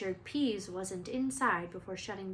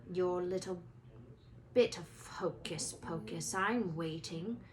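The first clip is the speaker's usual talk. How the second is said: menacing Snape; 2 semitones lower than usual. Acted. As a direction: drag it out with cold menace. Snape threatening.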